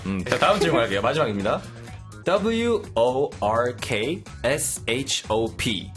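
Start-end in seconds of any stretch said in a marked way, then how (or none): none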